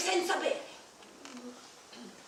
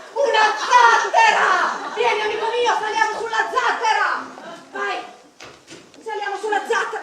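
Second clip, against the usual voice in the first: excited discovery; 5 semitones higher, 10 dB louder than usual. Pretend. An Argonaut urging his friend onto the raft, excited shouting. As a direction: hail the raft with joy.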